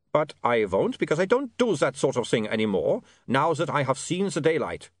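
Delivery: knowing, teasing vampire voice; vampire Otto. Acted. Otto hints at his stories to William, teasing vampire.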